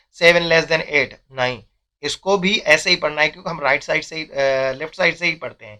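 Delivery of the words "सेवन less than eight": slow reading demo. Shown as a demonstration. Teacher slowly reading out the symbol to students. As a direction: read it out slowly, word by word. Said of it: "मैं इसको ऐसे नहीं पढ़ूंगा".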